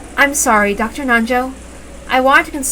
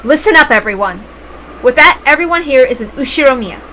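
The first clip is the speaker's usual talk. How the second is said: calling out; 2 semitones higher, 5 dB louder than usual. Acted. Rosa calls the room to attention.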